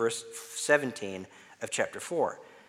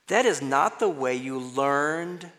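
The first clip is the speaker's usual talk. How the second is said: slow reading, "learned" drawn out; deliberate, landing hard on "learned"; stress on learned; 2 semitones higher, 4 dB louder, slower than usual. Shown as a demonstration. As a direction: stretch and press on "learned". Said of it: "emphasize some other words".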